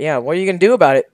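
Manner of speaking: fast, taunting dare; cocky challenge. Shown as a demonstration. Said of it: "asking what the viewers are gonna do about it".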